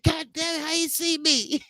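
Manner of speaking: high startled "God damn it, how you see me?". Retold or imitated. Voicing the caught viewer, high startled squeak. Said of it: "I guess he said".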